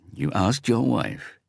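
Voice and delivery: slow, high, disbelieving question; incredulous. A narrator's reading. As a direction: let the shock stretch each word. Detective stunned by confession.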